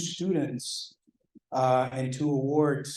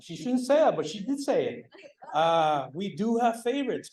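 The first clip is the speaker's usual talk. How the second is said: laughing admission; 7 semitones higher than usual. Real, not acted. Admits to favourite students.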